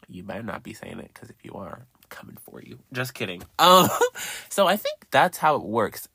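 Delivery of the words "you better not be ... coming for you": mock threat. Mock threat, then just kidding.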